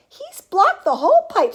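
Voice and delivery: high, loud astonishment; loud exclamation. A narrator's reading. Grandpa seeing the boy stuck, loud exclamation. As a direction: exclaim it in alarm.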